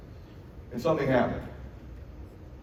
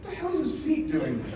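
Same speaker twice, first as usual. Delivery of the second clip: high, laughing disbelief; can barely get it out for laughing; laughing through words; 13 semitones higher than usual. Real, not acted. Father laughing at son's awkward photo, laughing.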